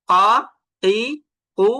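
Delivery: ক, তি, কু as open q syllables, no echo after the vowel; no qalqalah. Shown as a demonstration. Teacher contrasts voweled qaf, ক, তি, কু left without qalqalah. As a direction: say ক, তি, কু from the tongue root without a bounce. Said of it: "ক কি উচ্চারণ করেছি কিন্তু কলকলা হয় নাই".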